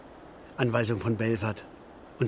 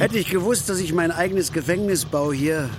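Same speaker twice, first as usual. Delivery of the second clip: loud and higher, full of bitterness; angry shout; 4 semitones higher, 5 dB louder than usual. Acted. Worker raging that he built his own prison.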